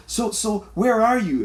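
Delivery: high, prying mock question; mock lady asking. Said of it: "she goes".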